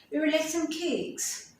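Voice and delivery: "would" swallowed to a quick 'd, "some" to səm; reduced would and some. Shown as a demonstration. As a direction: blur "would like some" into one glide. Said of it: "you will shorten it by saying some".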